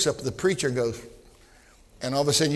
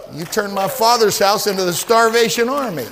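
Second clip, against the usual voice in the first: angry rebuke; 3 semitones higher, 5 dB louder than usual. Acted. Jesus rebuking the temple preachers.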